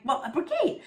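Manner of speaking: patiently stating the obvious through giggles; explaining child. Retold or imitated. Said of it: "I'm like".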